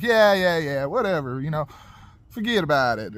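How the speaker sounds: imitating a man waving off a warning; mock impatient dismissal; dismissive brush-off.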